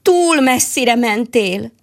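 sad mole. Acted. Mole sadly tells the squirrel she went too far, slow and sorrowful. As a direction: let the sadness drag the words. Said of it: "mondta szomorúan".

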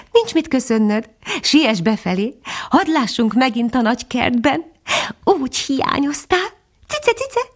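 high, lilting little bird voice; cheerful titmouse. A narrator's reading. Titmouse urging the dog home, cheerful high voice. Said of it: "nevetett a cinege jókedvűen".

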